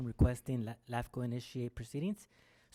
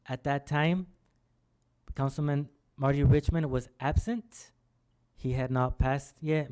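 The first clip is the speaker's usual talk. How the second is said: slow, louder and deliberate; speaking slowly; 7 dB louder than usual. Real, not acted. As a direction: spell it out slowly for a bad line. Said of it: "I will speak slowly".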